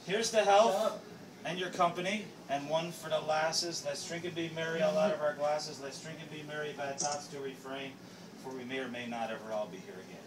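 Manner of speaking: recited drinking verse, softening; toast recitation. Acted. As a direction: declaim the toast rhyme.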